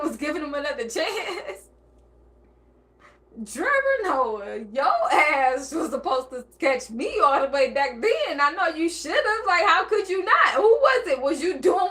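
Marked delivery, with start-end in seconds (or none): 3.5-8.4 laughing yell at him; mock shout. Real, not acted. Host yelling at Trevor Noah, laughing.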